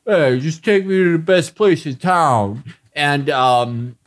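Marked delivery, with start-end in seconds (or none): 0.0-2.6 lightly voiced tough-guy impression; a hint of the movie tough guy; Stallone. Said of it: "Stallone will be like".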